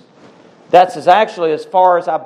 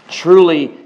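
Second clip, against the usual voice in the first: truly said louder, driven home; emphatic repeat; 6 dB louder than usual. Real, not acted. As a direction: hammer the repeated truly harder. Preacher repeats word for emphasis.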